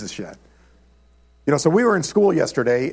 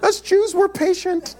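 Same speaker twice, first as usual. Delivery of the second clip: very high, slow-ending mock Jewish accent; badly done Jewish English voice, pitched way up; slower than usual. Israeli friend explaining Jewish patience, hammed-up Jewish English accent. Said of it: "I can't do a Jewish accent".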